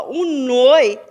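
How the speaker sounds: "noi" singled out loud and long; isolated stressed syllable. Shown as a demonstration. Teacher locating the penultimate syllable, loud drawn-out "noi". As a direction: hit "noi" hard. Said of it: "tá na penúltima sílaba".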